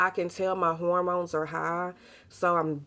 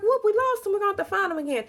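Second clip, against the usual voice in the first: much higher, louder yelp of surprise; mock surprised technician; 13 semitones higher, 3 dB louder, much faster than usual. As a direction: play the ultrasound tech losing the baby. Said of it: "They was like".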